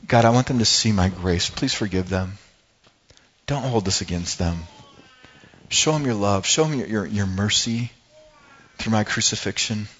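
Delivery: low, softened prayer for mercy; tender plea. Acted. Jesus praying for those crucifying him, tender plea.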